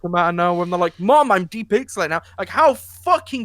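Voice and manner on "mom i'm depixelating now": put-on higher, louder sing-song kid; children telling their mom they are fading, in a mock kid voice. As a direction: make the kids sound bored and convenient. Mocking the children's flat line.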